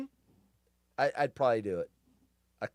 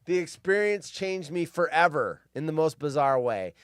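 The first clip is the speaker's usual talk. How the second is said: normal talking voice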